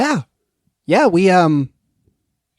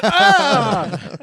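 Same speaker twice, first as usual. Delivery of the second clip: strangled cry; 8 semitones higher than usual. Pretend. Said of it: "Like, like I'm being strangled with one hand".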